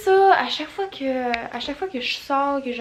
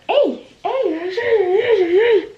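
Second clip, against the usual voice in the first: loud raspy smoker voice, higher; smoker's rasp; 9 semitones higher, 9 dB louder, much slower than usual. Shown as a demonstration. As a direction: rasp out each hey like a smoker. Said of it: "à force de parler avec ma voix de fumeuse". (voix de fumeuse éraillée)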